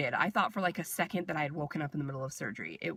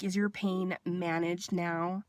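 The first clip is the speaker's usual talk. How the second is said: slow, deliberate, mildly patronising question; condescending nurse; slower than usual. Retold or imitated. Nurse repeating her question to the patient, condescending imitation. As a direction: imitate a nurse talking down, unhurried. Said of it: "Like, really condescending".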